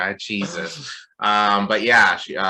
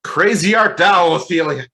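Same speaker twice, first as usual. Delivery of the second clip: mock Shakespearean; 7 semitones higher, 9 dB louder than usual. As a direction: ham it up like a stage Shakespearean. Mock Shakespeare after Hamlet talk.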